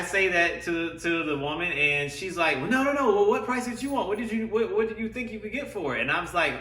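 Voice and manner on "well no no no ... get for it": higher, pleading dealer voice; saleswoman voice. Retold or imitated. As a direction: play the pushy saleswoman. Saleswoman voiced in retold story.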